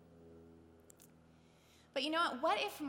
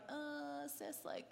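hushed, near-whispered aside; Mary, put upon; 9 dB quieter, much slower than usual. Retold or imitated. Mary to her sister in front of Jesus, hushed mock protest. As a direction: imitate a sister murmuring back under the breath. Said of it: "can you imagine Mary's like".

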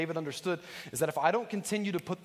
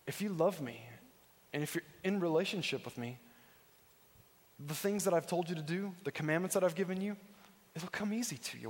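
gentle reading; 4 dB quieter than usual. Shown as a demonstration. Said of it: "I believe what Jesus is saying is".

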